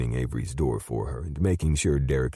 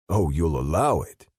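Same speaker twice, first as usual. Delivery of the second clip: sneering mock repeat, a touch louder; 4 semitones higher, 4 dB louder than usual. Derek mocking Jim's words back at him, mild sneer. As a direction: throw his own words back with a sneer. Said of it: "he mocked".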